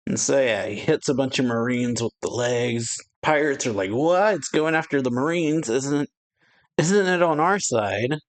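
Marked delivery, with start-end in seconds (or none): 3.9-8.2 higher-pitched, startled questioning; mock bewilderment. Pirates startled that it attacks Marines, mock bewilderment. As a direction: act out puzzled disbelief.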